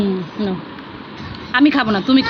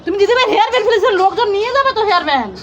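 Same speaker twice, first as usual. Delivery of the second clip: higher, laughing through the words; amused scolding with laughter; 3 semitones higher than usual. Real, not acted. Laughing at dropped hairband. (হাসতে হাসতে বলা)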